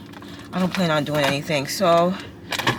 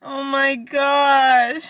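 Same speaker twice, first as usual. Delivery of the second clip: exhausted; 9 semitones higher, 4 dB louder, much slower than usual. Real, not acted. Drained after the workout.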